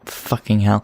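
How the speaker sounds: usual speaking voice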